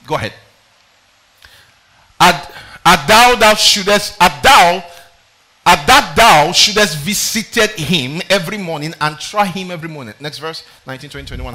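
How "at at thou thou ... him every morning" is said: loud halting reading. Acted. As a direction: read it out with heavy force. Reading verse loud and slow.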